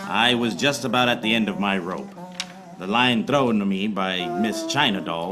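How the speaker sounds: hard-boiled voiceover, even and dry; noir detective narration. Acted. Detective narrating his case to the audience, dry noir voiceover. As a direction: narrate like a tired private eye.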